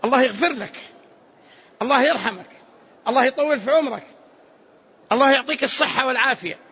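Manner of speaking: measured, separate, definite blessings; resolute prayer. Shown as a demonstration. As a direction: state each blessing with full resolve. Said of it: "اعزم". (دعاء جازم)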